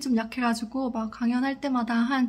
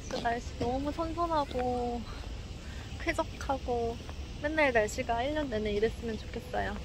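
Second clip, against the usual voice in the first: muffled behind mask; speaking masked outdoors; through a face mask. Real, not acted. Seen 3: Speaker wears white face mask over mouth throughout the walk.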